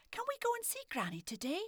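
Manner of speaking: put-on high little girl's hopeful question. A narrator's reading. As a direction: ask like an eager wee lassie. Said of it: "she asked her mum".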